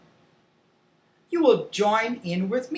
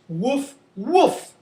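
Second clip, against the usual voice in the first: short woofs, second jumping higher; dog woof; 4 semitones higher than usual. Shown as a demonstration. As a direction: imitate a dog's bark for children. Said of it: "talk about the sounds".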